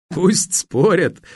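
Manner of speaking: high, drawn-out amused dismissal; lightly amused. A narrator's reading. Young arms magnate scoffs at rivals' quarrel, amused. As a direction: wave it off with a touch of mirth. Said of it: "засмеялся ещё достаточно молодой".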